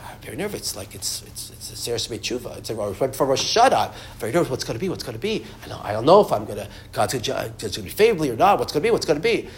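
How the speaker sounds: hushed, anxious fretting, half whispered; nervous worrying. Retold or imitated. The nervous man confides his fear to Shlomo, hushed and anxious. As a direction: fret quietly like a scared man before Rosh Hashanah. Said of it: "He's really scared".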